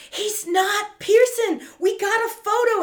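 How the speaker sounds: squeaky imitation of the pair; mock high voice. Murphy and Miss Fox report the news, mock high voice. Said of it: "and are like".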